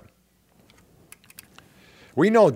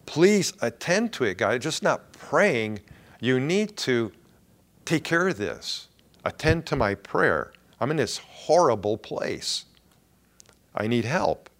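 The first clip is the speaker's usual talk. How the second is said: desperate prayer. Retold or imitated. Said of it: "He cries out to God".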